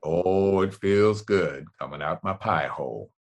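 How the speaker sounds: mellow narrating Morgan Freeman voice; low thoughtful Morgan Freeman. Pretend. Morgan Freeman shows his low narrator voice. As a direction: settle back down, musing on life. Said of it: "other times it goes low".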